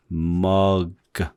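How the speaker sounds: mug spoken as in American English, open short vowel; English demo word. Shown as a demonstration. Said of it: "이렇게 소리 내면 되죠".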